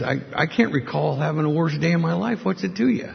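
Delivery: mildly defensive, pitch climbing into the question; retold testy retort. Down-and-out man answering a friendly stranger, testy. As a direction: push back at the stranger, voice lifting at the end. Acted curt reply to a stranger.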